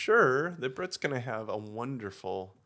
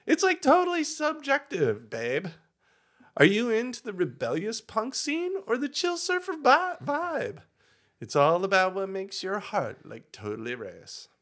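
put-on Valley Girl voice; 6 semitones higher than usual. Valley Girl persona continues.

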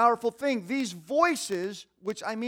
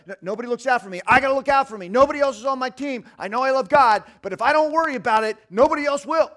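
inner voice; 4 semitones higher, 9 dB louder, faster than usual. Retold or imitated. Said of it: "a real experience has been deposited".

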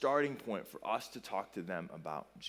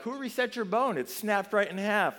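much higher, mock-astonished doctor; imitating an amazed doctor; shocked doctor; 9 semitones higher, 5 dB louder than usual. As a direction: play the stunned ER doctor. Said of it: "They're like".

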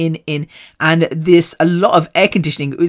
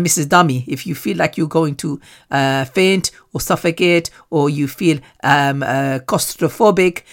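imitated Nigerian accent, low-key; retold speech in a mild Nigerian accent; 3 semitones lower, 3 dB quieter than usual. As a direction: put on a light Nigerian accent. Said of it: "I don't know why I do Nigerian accent".

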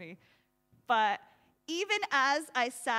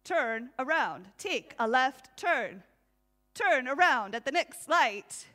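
nagging GPS voice; 6 dB louder than usual. Retold or imitated. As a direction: play a bossy sat-nav barking turns. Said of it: "it'll yell at you".

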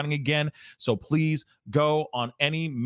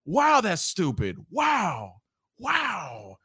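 winding down from laughter; 3 semitones higher, much slower than usual. Real, not acted. Laughter dying down.

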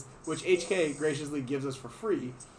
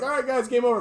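triumphant call; 9 semitones higher, 5 dB louder than usual. Retold or imitated. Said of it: "I'm like".

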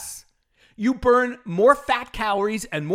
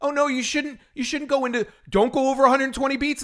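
mocking quote; 3 semitones higher than usual. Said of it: "this person said".

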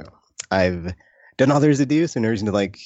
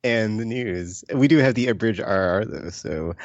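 smooth late-night radio DJ; jazz radio voice. Pretend. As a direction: croon it like a jazz DJ. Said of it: "my nice, calm jazz radio voice".

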